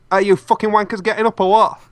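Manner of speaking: put-on gruff-worded Teesside parody of a baby sun; Teesside dub voice. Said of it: "I should do a Teesside Tintin".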